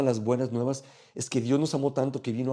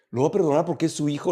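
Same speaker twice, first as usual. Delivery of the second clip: quicker, pushier jab at the king; cynical scoff; 3 semitones higher, 3 dB louder, faster than usual. Retold or imitated. The crowd sneers about leaders sparing their sons, quick scoff. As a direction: fire it off like a jaded gossip. Cynical townspeople predicting favoritism.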